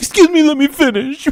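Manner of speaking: very high-pitched, indignant, entitled-sounding voice. Mocking a guy he would not let finish, the speaker imitates him in a Karen voice. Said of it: "he sounds like a total Karen".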